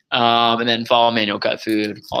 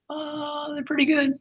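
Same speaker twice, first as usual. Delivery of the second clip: thin, quiet, half-hearted 'they're pretty good'; unenthusiastic waiter; 6 dB quieter, slower than usual. Retold or imitated. Waiter answers a customer's question with no enthusiasm. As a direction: shrug it off like you don't care if they order. Waiter asked about chicken nachos.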